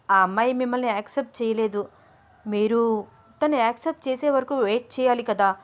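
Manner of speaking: heated reproach; angry questioning. Acted. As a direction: demand an explanation from him. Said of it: "కోపంగా అడిగింది అను".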